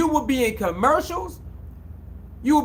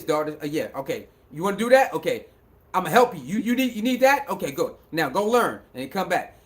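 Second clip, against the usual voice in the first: lightly voiced dad; 4 semitones lower, faster than usual. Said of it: "he your navigational system".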